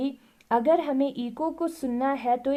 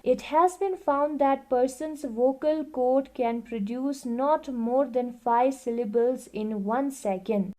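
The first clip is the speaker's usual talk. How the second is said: reading the book aloud, very slowly and evenly; slow classroom read-aloud; slow textbook reading; much slower than usual. Acted. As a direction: dictate it word by word to the class. Reads textbook line aloud.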